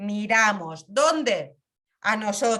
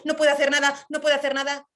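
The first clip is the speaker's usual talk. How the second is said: mock despair; 4 semitones higher, 4 dB louder, much faster than usual. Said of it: "si yo entro en mi sufrimiento".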